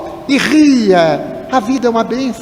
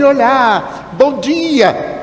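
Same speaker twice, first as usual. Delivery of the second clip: higher-pitched acted hello; cheerful greeting; 5 semitones higher, much slower than usual. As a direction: greet a friend in a raised, sing-out voice. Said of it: "Só porque eu não disse assim".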